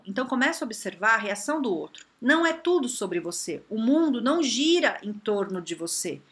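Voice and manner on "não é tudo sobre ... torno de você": normal talking voice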